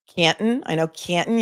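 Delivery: Canton said CAN'n, middle T swallowed. Shown as a demonstration. Host showing chat she knows it, Canton without its T. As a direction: say Canton with a catch in place of the T. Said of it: "You don't pronounce the T".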